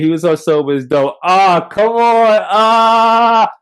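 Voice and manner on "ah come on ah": straining to remember. Real, not acted. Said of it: "what's my guy name?".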